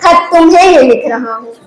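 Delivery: lilting stage recital, lines repeated for effect; poem recitation. Acted. Wounded soldier writes his last letter to his wife, declaimed as verse.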